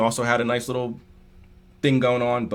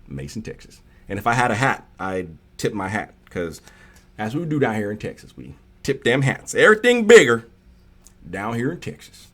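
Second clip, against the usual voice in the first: put-on country accent. Streamer posing as a hat-tipping Texan, playful country accent. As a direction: play a down-home Texan. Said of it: "I can do a country accent".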